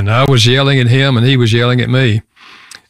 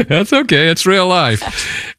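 higher-pitched, laughing through the words; amused reassurance; 7 semitones higher, slower than usual. Real, not acted. Amused at interruption during his story.

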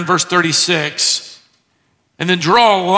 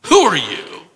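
derisive taunt; slower than usual. Shown as a demonstration. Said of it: "It's a form of derision".

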